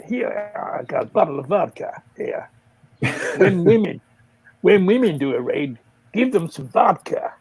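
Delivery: imitated American stockbroker; lightly hammed American accent. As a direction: put on a rough attempt at American. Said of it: "Don't make me do an American".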